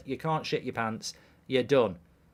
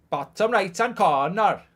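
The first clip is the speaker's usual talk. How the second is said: higher, louder attempt at Welsh; Welsh accent; 5 semitones higher, 5 dB louder than usual. Shown as a demonstration. Streamer retrying the subscribe line in a bad Welsh accent. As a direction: lean into a bad Welsh lilt. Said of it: "I can't do Welsh".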